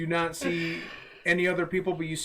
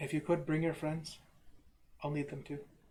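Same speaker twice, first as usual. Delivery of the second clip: put-on Irish accent; 9 dB quieter than usual. Voicing a voice that calls to a player: Irish accent. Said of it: "so he's Irish".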